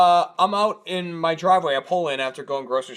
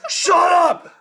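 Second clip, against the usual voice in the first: loud, high angry yell; retold shout; 14 semitones higher, 7 dB louder than usual. Neighbor yelling at the night, angry shout. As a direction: shout it at the noise. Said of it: "the guy going".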